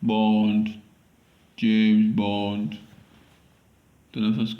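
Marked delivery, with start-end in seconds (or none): 0.0-2.8 put-on tentative German accent, at usual pitch. Auditioning for James Bond in an attempted German accent. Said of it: "German accent".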